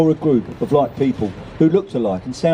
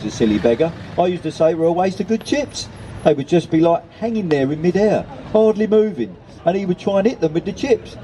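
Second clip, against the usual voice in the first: put-on old lady reminiscing in a higher, lilting pitch; lightly voiced old lady; 4 semitones higher than usual. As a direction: tell a well-worn family anecdote as the old lady.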